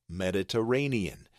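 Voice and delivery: Mediterranean with the RAY syllable most emphasized; stress on the third syllable. Shown as a demonstration. Teacher showing which syllable gets most emphasis, stressed Mediterranean. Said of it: "The ray has the bold caps".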